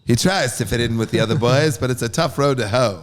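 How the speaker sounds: lightly put-on Mid-Atlantic accent; a hint of old-timey Mid-Atlantic accent. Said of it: "that's my Mid-Atlantic accent".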